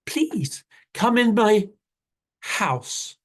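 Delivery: a tiny rabbit flattering the big cat; little rabbit. Acted. Rabbit coaxing jaguar into his house, high and pleading.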